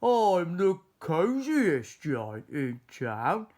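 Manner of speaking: slow cheerful proclamation; happy cry. A narrator's reading. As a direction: George singing out his joy. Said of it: "he cried".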